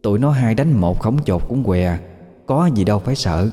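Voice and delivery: a lightly voiced ghost mother defending herself; ghost woman explaining. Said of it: "rồi nói tiếp".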